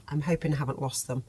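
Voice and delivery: quiet, unsure hoping; soft and doubtful, half to herself; worried hope. Real, not acted. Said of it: "Well, I haven't lost them".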